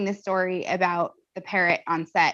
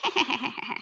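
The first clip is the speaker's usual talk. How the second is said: parrot laugh; 3 semitones higher, 5 dB quieter than usual. Retold or imitated. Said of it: "the bird goes ... and laughs at him".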